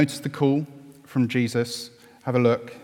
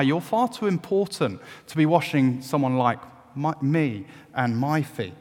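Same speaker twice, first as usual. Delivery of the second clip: imitating Peter; 7 semitones higher, 5 dB louder than usual. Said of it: "we can be forgiven for reading this and think".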